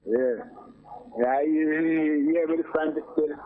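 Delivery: muffled, like through a bad phone line; caller's voice muffled and distant. Real, not acted. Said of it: "you sound very muffled".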